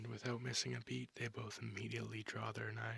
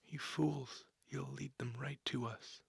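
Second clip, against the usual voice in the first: angry rebuke; 3 semitones higher, 6 dB louder than usual. Acted. Local warrior scolding the newcomers for drawing the enemy, angry. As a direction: snap at them for leading danger in.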